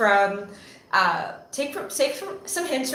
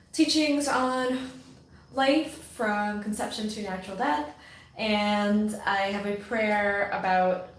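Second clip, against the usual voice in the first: newscaster voice; 4 dB quieter than usual. Acted. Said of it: "why am I talking like a newscaster".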